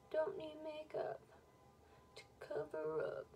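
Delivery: sing-song whisper aside. Acted. Whispered joke to self.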